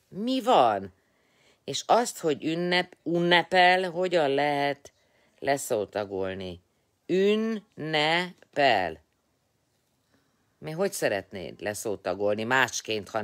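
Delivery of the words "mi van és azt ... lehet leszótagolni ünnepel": high, loud insistent questioning; worked up arguing. Real, not acted. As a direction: argue the point heatedly. Heated syllable argument.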